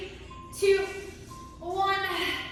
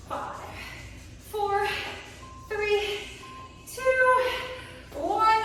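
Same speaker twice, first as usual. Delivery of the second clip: rising shouted countdown; 5 semitones higher, much slower than usual. Real, not acted. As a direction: pump them up through the last reps. Coach pushing final countdown.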